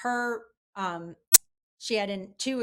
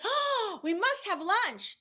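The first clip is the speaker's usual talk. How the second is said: Barbara voice; 12 semitones higher, slower than usual. Retold or imitated. Barbara Walters voiced in story.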